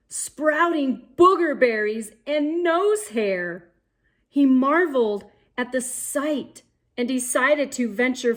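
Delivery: put-on lively read-aloud for young kids; storybook reading. A narrator's reading. Reading a picture book to boys and girls, lively storybook voice. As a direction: paint the adventure for the little ones.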